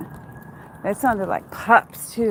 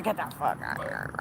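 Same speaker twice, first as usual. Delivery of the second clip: mock tough yell; 8 semitones lower, 8 dB quieter, faster than usual. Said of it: "I'm like".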